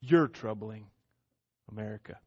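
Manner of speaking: low, soft, steady answer; quiet firm reply. Retold or imitated. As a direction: calmly turn the charge back on them. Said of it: "look them square in the eye and say".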